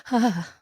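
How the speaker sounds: imitated fangirl gasp-sigh; mock swoon on an exhaled "ah". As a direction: let out a quivering "ah" as if swooning. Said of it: "And we all just go".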